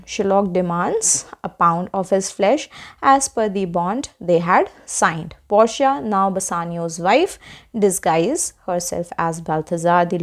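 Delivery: slow, measured English reading; textbook read-aloud. Acted. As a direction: read the summary out slowly for a class. Reads the English summary aloud.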